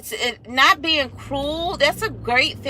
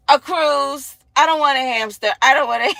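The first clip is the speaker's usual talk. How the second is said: put-on louder, excited kid answer; eager child switch; 3 semitones higher, 6 dB louder than usual. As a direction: jump at the cruise.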